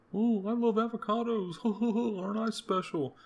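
high, loud, giggly airhead voice; mock vain Californian. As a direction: sneer it as a self-satisfied avocado lover with a laugh.

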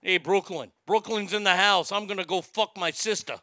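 lightly voiced Brooklyn accent; New York accent. Host moving the sister joke to Brooklyn, New York accent. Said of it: "say that now with a New York accent".

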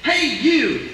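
loud, regal pony princess call; a hint of a cartoon princess; Princess Celestia voice. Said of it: "in the Princess Celestia voice do the following".

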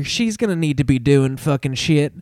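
a hint of a cranky old promoter; Jim Cornette voice. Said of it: "I'm gonna do this whole thing as Cornette".

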